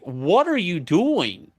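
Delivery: what are you doing, slow and incredulous; exasperated demand. Retold or imitated. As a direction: press her for an answer, baffled. Confronting wife over hidden charms.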